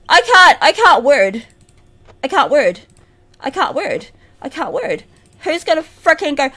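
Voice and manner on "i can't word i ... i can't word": low, very soft mumble; self-muttering. Real, not acted. Player who fumbled their words, soft low mutter.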